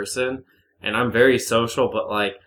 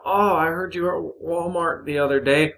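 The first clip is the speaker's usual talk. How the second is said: higher-pitched mock busybody; put-on higher voice of a nosy neighbor; nosy small-town acquaintance; 6 semitones higher than usual. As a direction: imitate a chatty local in a raised voice. Nosy townsperson retold.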